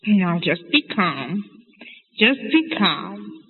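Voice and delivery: slow, drawn-out soothing words; lightly acted father calming his wife; Papa calming Mama. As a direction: stretch it out to settle her down. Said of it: "What's Papa saying to Mama?".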